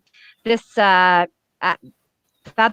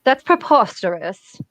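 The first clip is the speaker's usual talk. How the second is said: snooty Emma Frost. Acted. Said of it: "I'm reading her like a snooty bitch".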